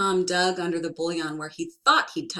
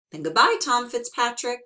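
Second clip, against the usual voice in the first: sly farewell; 6 semitones higher, 7 dB louder than usual. Acted.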